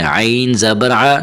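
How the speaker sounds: slow spelling with عین from the throat; sounded ain. Shown as a demonstration. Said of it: "عین کی آواز نکالیں". (عین کی آواز نکال کر، آہستہ)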